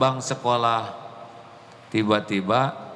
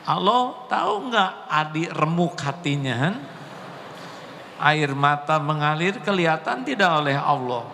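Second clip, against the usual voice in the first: raised preaching voice, questioning; 6 semitones higher than usual. Acted. Preacher challenging the congregation, raised voice. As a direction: press the congregation for an answer.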